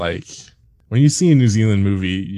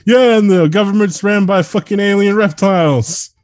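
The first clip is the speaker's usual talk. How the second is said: high mock British football bloke; loud, hammed-up English voice; British accent; 12 semitones higher, 4 dB louder than usual. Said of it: "But in a British accent".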